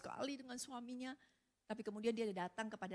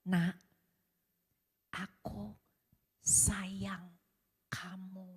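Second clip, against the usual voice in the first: loving; 2 semitones lower, 4 dB louder, much slower than usual. Retold or imitated. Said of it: "dengan kasih dan berkata".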